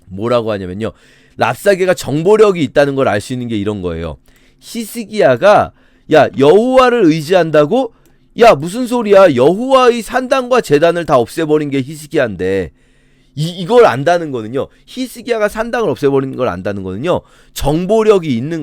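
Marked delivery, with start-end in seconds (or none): 6.1-12.7 louder, higher mock disbelief; scornful retort. Enemy general challenges Judah's trust in God, loudly scornful. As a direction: throw the claim back at them, incredulous.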